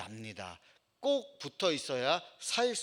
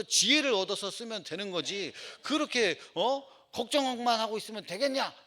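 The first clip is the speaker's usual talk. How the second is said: retold professor's rebuke, pitched up; mildly heated telling-off, building higher to the end; angrier scolding; 5 semitones higher than usual. Mentor scolding an anxious student, imitated rising exasperation. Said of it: "교수님이 더 화를 내면서".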